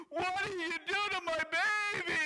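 high, loud outraged mother demanding answers; accusing mom. Retold or imitated. Mom confronting son's girlfriend at the ER, high outraged demand. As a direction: play the furious mom confronting the girl. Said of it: "She goes".

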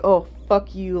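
mock entitled whine on Oh; bratty fuck you. Shown as a demonstration. Showing how she did not tell off her friend, mock bratty. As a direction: play the spoiled brat she isn't. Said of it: "I'm not saying it like".

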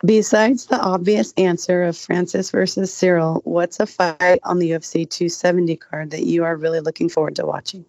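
sounding under the weather; sick voice. Real, not acted. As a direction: speak like you have a cold. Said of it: "Sick lady voice".

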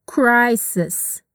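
"Crisis." with both S sounds clear and hissed; crisp S sounds. Shown as a demonstration. Teacher stressing the S in crisis. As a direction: lean on the S in "Crisis.". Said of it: "Capricha aí no som do S".

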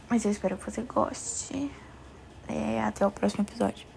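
whispered goodbye. Real, not acted. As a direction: breathe it softly to the listener. Soft sign-off to listener.

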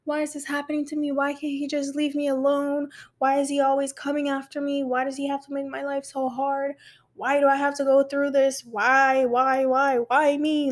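imitating a self-pitying complaint; retold pity party. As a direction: throw yourself a pity party, lightly hammed up. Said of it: "I threw a whole pity party for myself".

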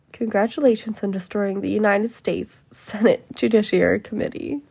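mildly dramatic mock congratulations; retold dramatic rebuke. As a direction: imitate a senator's theatrical reproach. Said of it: "dramatically told him".

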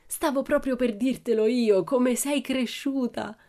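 proud papa, voice lifted; delighted exclamation. A narrator's reading. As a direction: marvel at her, stretching the last words slowly. Father exclaims over his daughter.

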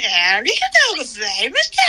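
customer service voice. Retold or imitated. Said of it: "イントネーションの仕方してる".

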